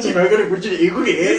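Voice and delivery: hint of a cheeky Osaka uncle; Osaka middle-aged man. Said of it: "大阪のおっさんや".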